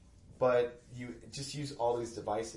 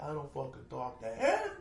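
imitating a ranting Brooklyn relative, much higher and louder; crazy Brooklyn relative; 14 semitones higher, 7 dB louder than usual. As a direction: play a hot-headed Brooklyn uncle mid-feud, laughing through it. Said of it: "I'm married to a crazy, like, Brooklyn family".

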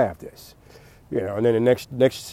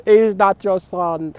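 higher, louder and slow accusation; hammed-up slow yell; 9 semitones higher, 8 dB louder, slower than usual. Trump yelling at Melania in the skit, slow furious shout. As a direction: spit each word out in a rage.

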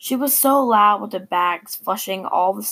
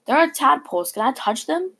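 pleading, higher sister voice; sad little sister; 7 semitones higher than usual. A narrator's reading. Little sister begs sadly to touch tadpoles. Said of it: "she said, very sad".

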